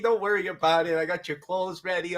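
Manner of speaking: chirpy mimic of a doting mother; imitating mom. Son mimics his mom reassuring him, high and eager. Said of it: "She's like".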